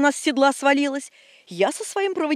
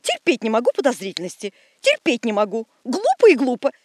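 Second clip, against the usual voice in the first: irritated; 3 dB louder than usual. Acted. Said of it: "поморщилась дамочка".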